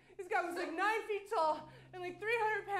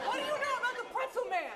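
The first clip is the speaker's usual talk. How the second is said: fast alarmed demand; 7 semitones higher, 6 dB louder, much faster than usual. Acted.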